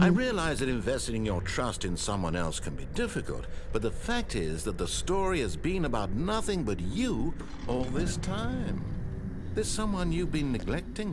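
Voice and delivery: villain voice. Acted. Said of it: "The narrator has villain voice".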